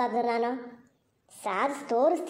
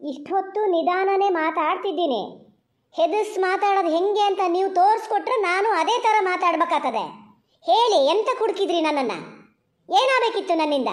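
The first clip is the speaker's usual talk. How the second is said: defiant, raised voice; speaking loudly; 4 semitones higher than usual. Real, not acted. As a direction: talk back at him louder and higher. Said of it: "ಏನಿಷ್ಟು ಜೋರಾಗಿ ಮಾತಾಡ್ತಾ ಇದೆಯಲ್ಲ". (ಗಂಡನಿಗೆ ಎದುರುತ್ತರ ಕೊಡುತ್ತಾ ಜೋರಾಗಿ)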